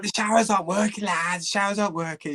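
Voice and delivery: fast, high imitated Scouse accent. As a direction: rattle it off like an excited Scouser. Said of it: "Scouse accent".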